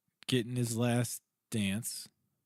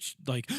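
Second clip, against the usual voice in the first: excited gasp. Retold or imitated. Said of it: "I lost my breath".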